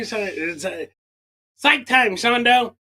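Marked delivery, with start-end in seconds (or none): 1.6-2.8 calling out. Real, not acted. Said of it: "calling for a break".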